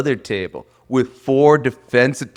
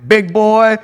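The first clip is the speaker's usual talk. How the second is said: put-on southern accent; 5 semitones higher, slower than usual. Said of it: "with that southern accent".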